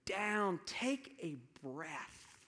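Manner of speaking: slowed-down urging. Retold or imitated. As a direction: model the calm pace you want him to take. Mentor urges him to slow.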